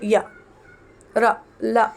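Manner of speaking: य, र, ल one by one, tongue lightly catching; slightly catching sounds. Shown as a demonstration. Teacher demonstrating semivowels, य, र, ल separately articulated. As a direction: isolate य, र, ल with a slight tongue contact. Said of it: "थोड़ा सा अटकती है".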